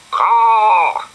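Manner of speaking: high loud cawing bird call; loud high crow cry. Acted. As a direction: caw like a crow up a tree. Crow caws, flies off.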